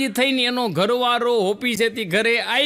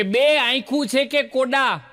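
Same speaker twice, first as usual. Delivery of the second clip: taunting; 5 semitones higher than usual. Retold or imitated. Mother-in-law taunting the new bride over stones in the khichdi. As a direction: needle the daughter-in-law with a jibe. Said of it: "ટોણો મારવાની તૈયારીમાં".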